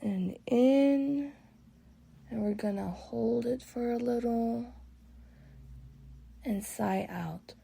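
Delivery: calm guided meditation with long pauses; relaxing meditation voice. Real, not acted. Guide leading listeners through breathwork and body relaxation, relaxing. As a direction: ease them unhurriedly through each breath, letting phrases settle. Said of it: "My voice is gonna shift to a little more relaxing".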